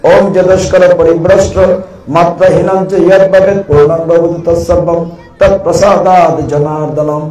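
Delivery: measured Sanskrit closing prayer; prayer recitation. Acted. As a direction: recite the closing mantra reverently.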